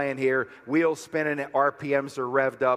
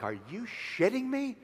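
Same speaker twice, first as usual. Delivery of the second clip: incredulous to God; 8 semitones higher, 7 dB quieter than usual. Retold or imitated. Complaining up to God in hospital.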